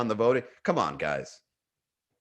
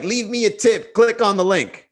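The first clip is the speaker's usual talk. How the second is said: mock plug; 8 semitones higher, 6 dB louder than usual. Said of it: "My influence is like".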